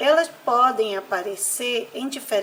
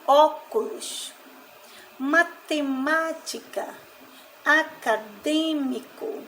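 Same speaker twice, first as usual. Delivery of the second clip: "óculos, matemática, acadêmico" slow, tonic syllables drawn out; stress on antepenultimate syllable; 3 semitones higher, slower than usual. Shown as a demonstration. Teacher listing proparoxytone examples, slow syllable stress. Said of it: "estão na antepenúltima".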